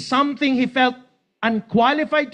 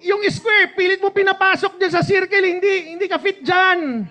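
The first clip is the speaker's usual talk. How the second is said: higher, louder, faster gentle scolding; God gently scolding, voiced higher; voicing the Lord; 8 semitones higher, 4 dB louder than usual. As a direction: tease him like a knowing parent. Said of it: "Sabi ni Lord".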